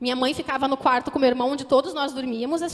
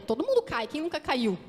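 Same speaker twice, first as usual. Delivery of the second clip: mildly voiced dismissive shrug; a light offhand imitation of what others think. Preacher imitating the congregation's shrugging thought, mildly offhand. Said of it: "muitos podem pensar".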